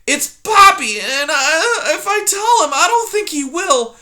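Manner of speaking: put-on high, small, timid mouse girl; timid young mouse. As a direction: squeak it out like a frightened little mouse. Poppy voiced in story.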